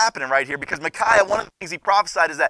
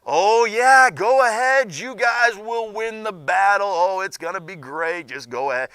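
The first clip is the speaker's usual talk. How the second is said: mock-eager yes, louder at the start then sliding down; sarcastic; 3 semitones higher, 3 dB louder, slower than usual. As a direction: fake enthusiasm that means the opposite.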